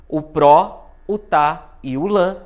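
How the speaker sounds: PRÓ, TÁ and LÃ stressed, "pró" loudest; teacher isolating the strong syllables "pró", "tá", "lã"; stressed syllables picked out. Shown as a demonstration. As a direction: punch "pró" hard, then mark "tá" and "lã". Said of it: "são a mais forte".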